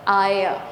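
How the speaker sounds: "I" gliding through three vowels in one; blended triphthong. Shown as a demonstration. Teacher demonstrating a triphthong, three vowels blended. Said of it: "vowel sounds together".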